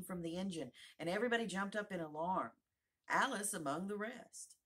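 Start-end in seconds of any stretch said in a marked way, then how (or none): none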